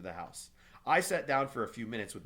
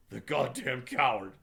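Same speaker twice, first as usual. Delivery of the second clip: whimpering; 4 semitones higher, 7 dB louder, slower than usual. A narrator's reading. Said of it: "he whimpered".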